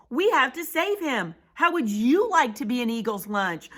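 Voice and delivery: rally the crowd urgently; urgent yell. Acted. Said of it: "yelled Pip".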